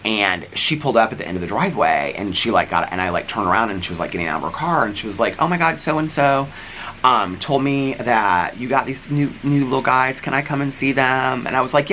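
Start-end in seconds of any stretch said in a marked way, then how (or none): 5.4-11.5 high, excited gush of a neighbor; high-pitched excited neighbor. Retold or imitated. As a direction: imitate her thrilled at the puppies. Neighbor woman gushing over puppies.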